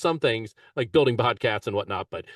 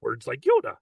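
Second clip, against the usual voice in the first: a hint of Grover; lightly voiced muppet; light Grover impression. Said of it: "Grover is over".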